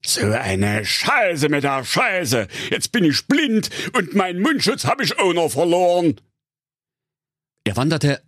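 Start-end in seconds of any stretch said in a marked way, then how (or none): 0.0-6.2 higher despairing put-on voice; Enrico. Blind Enrico lamenting in the forest, higher put-on voice. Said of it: "So rief er immer wieder".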